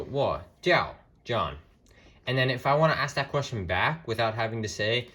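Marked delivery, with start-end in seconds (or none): 0.0-1.6 "wo jiao John" drawn out slowly with clear Mandarin tones; slow Mandarin demo. Shown as a demonstration. Teacher showing students how to answer, slow and careful.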